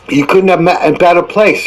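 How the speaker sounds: a lightly voiced old rag-dealer, sly; old Joe. Old Joe welcomes his thieving visitors, sly. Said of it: "said old Joe".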